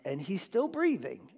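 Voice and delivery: mock-indignant preacher voice. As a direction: build the outrage, then drop it to a hushed punchline. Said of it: "what did he say?".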